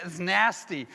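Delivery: American "nasty" with a flat A; American accent. Shown as a demonstration. Speaker showing the crowd a favorite American word, American accent. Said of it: "the way Americans say".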